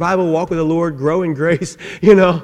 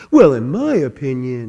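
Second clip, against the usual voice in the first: low-pitched, dopey fool voice; 4 semitones lower than usual. Describing types of people in a discussion, doing the fool's voice. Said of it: "I'm making that voice to be the fool".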